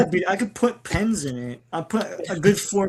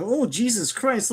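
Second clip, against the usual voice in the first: drawn-out, higher exclamation; mock shock; 5 semitones higher, 4 dB quieter, slower than usual. Guest reacting to old videos of own beard, mock shock. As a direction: recoil in playful disbelief.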